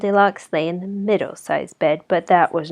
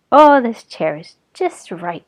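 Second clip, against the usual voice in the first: put-on louder, delighted little girl; pleased Goldilocks; 3 semitones higher, 6 dB louder than usual. Goldilocks finds the little chair, delighted. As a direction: sigh of relief, just right.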